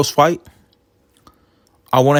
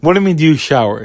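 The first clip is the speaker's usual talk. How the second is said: incredulous; 2 semitones higher than usual. Retold or imitated. His own incredulous reaction.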